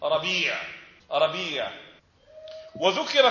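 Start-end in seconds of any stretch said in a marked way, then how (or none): 0.0-1.7 ربيع as rabee', long ee; third variant. Shown as a demonstration. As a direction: draw out the ee in ربيع before the ayn. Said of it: "واللغة الثالثة تقول".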